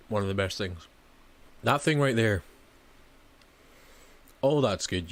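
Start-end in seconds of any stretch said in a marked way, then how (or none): 4.4-5.1 talking through a big bite; chewing while speaking; mouth full. Real, not acted. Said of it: "I took a massive bite out of it".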